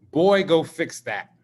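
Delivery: slow, firm imitation of a dad's order; serious father. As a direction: give the order like a father who means it. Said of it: "you knew he was serious".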